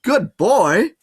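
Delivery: high, loud praise to a dog; bright praise. A narrator's reading. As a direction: cheer the dog on like a trainer.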